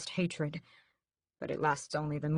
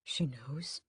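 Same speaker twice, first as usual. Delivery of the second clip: shocked; 3 semitones lower, 6 dB quieter than usual. A narrator's reading. Raoul's shocked whisper.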